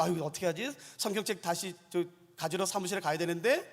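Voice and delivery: low, soft mutter to oneself; imitating awkward private thought; retold worried self-talk. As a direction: mutter it as a sheepish aside. Retells own awkward muttered thought.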